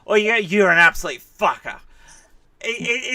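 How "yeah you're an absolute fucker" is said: insulting tone. Retold or imitated. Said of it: "it's all in the tone".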